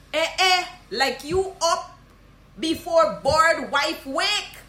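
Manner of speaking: slow, high Guyanese Creole teasing; surprised Guyanese greeting. Shown as a demonstration. Guyanese teacher teasing someone up early. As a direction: tease the early riser. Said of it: "me like this one bad".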